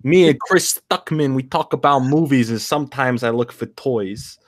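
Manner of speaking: goofy drawn-out character voice; Matthew Brando. Acted. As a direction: introduce yourself in a hammed-up put-on voice. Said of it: "the character I've created for him".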